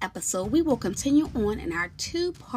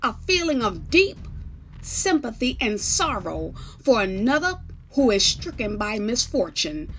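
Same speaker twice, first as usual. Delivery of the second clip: formal bailiff; 2 semitones higher, 6 dB louder than usual. Acted. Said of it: "The bailiff says".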